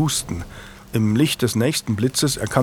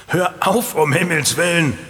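higher, exasperated scolding; 6 semitones higher than usual. Acted. Knight scolding Lucas to stop the song, exasperated. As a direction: tell him off, half laughing. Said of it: "schalt Julian".

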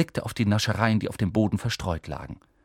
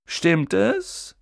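high, sneering schoolboy voice; arrogant boy Malfoy; 9 semitones higher, 3 dB louder than usual. A narrator's reading. Malfoy sizes up Harry in the compartment, sneering. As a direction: look down on him from a height.

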